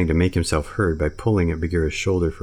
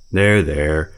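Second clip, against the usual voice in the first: tender; 4 semitones higher, 7 dB louder than usual. Acted. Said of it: "said the brown bear tenderly".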